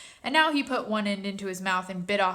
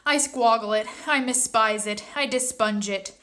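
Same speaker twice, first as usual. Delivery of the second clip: BFG giant voice; 2 semitones higher, 6 dB louder than usual. Acted. BFG rants about snozcumber.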